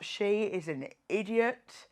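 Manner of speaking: mock the viewers' verdict slowly; hint of a scoffing French viewer. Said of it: "French viewers are gonna be like".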